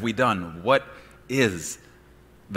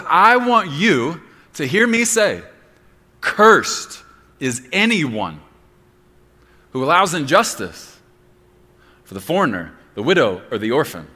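God speaking; 7 semitones higher, 12 dB louder than usual. Acted. Preacher voicing God's command to his children, booming. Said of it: "God says".

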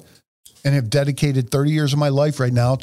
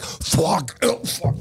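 mock panic; 3 semitones higher, much slower than usual. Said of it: "The guy next to you is like".

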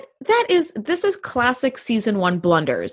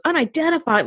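higher-pitched mock indignant query; frustrated disbelief; 6 semitones higher than usual. Alien captain objecting to the word, mock frustrated. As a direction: imitate an affronted alien officer, pitch lifted. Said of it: "he gets really frustrated".

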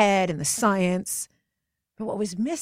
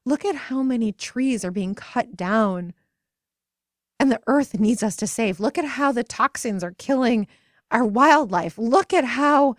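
higher, rising urgency through each look around; impassioned plea; 5 semitones higher, 3 dB louder than usual. Retold or imitated. Friend urging the women to see the world's pain, rising urgency. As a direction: plead with growing fervor. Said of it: "My friend Natalie said".

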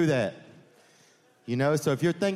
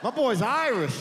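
much higher put-on mom voice; high, squeaky insistence from the mom; hammed-up boozy mother; mock drunk mom; 10 semitones higher, slower than usual. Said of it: "And she's like".

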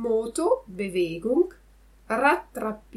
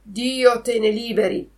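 indignant; 3 semitones higher, 6 dB louder than usual. Acted. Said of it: "sdegnandosi e chiamandosi offesa".

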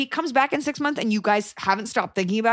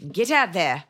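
put-on South African accent; slower than usual. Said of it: "I've been doing Australian".

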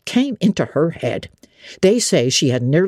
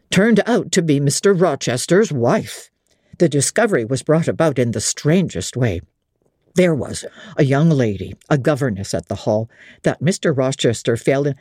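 a lightly voiced old host confiding gossip; innkeeper. Innkeeper voice read by narrator.

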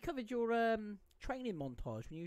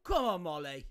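Birmingham accent cheer; 3 semitones higher, 7 dB louder than usual. Real, not acted. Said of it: "sound any more Birmingham".

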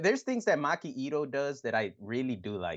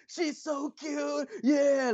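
high, slow squealing gush; high mock cheer of fawning fans; much slower than usual. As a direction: gush like a starstruck fan. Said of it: "everybody around's all like".

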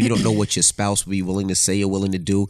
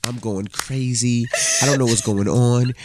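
mock bawling. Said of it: "And then you started bawling".

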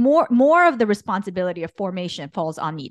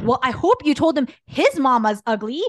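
louder, heated retelling of angry advice; mad retort; 4 semitones higher, 4 dB louder than usual. Retold or imitated. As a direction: fire it off like an angry mom. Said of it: "I got so mad that I was like".

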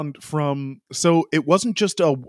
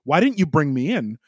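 higher, pressed, complaining radio rant; frustrated Charles rant; 5 semitones higher than usual. Retold or imitated. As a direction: imitate an angry driver demanding to know why. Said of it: "that was the tone".

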